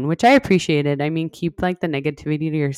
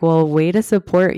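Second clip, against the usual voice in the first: dry sarcastic thanks; mock gratitude, deadpan; plain sarcastic jab; 4 dB louder than usual. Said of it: "Which I was like".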